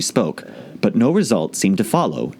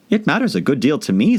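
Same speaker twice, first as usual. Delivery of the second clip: hasty; 6 semitones higher than usual. Acted. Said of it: "said Alice hastily".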